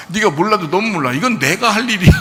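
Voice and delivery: a rising stern rebuke. Retold or imitated. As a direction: scold him like a frustrated teacher. Jesus rebuking Peter, repeated.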